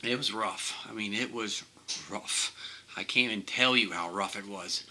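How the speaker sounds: choked up, halting with pauses; getting emotional. Real, not acted. Patient recalling the tube ordeal, getting emotional. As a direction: fight back real emotion while talking. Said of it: "sorry if I'm getting emotional".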